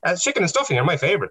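high-pitched mimicked older woman; mock an eager woman answering, voice pitched right up; imitating chatty heckler. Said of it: "So this woman was like".

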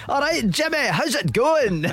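high-pitched, exaggerated Scottish accent; hammed-up Scottish greeting, drawn out at the end; terrible Scottish accent. Host mimicking visitors' bad impressions, terrible Scottish accent. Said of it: "a slightly terrible Scottish accent".

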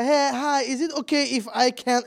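mock timid high voice asking permission; timid asker. Shown as a demonstration. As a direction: imitate someone asking too politely. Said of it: "man går inte dit och säger". (lätt överdrivet blyg fråga)

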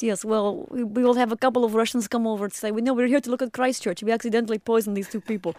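lightly mocked Russian accent; put-on Russian accent. Co-host imagining visiting Russian poisoners, put-on Russian accent. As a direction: imitate a Russian speaker for laughs. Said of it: "They talk like this".

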